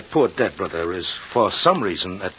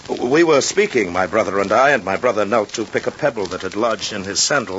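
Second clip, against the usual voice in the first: hurried alibi; 2 semitones higher, faster than usual. Acted. Kanak hurriedly improvising his story.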